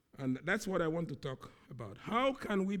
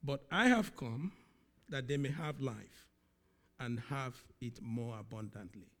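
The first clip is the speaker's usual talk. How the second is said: quoting Jesus; 4 dB louder than usual. Retold or imitated. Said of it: "He says".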